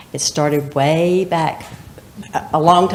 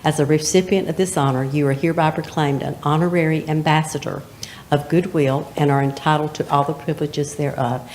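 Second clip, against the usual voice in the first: official proclamation. Acted. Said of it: "this is gonna sound very official".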